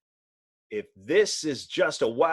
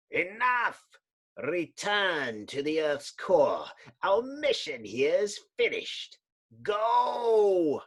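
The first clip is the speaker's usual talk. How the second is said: shrill, commanding master; 3 semitones higher, slower than usual. Acted. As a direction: order the monster back down. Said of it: "shrill sound of a commanding voice".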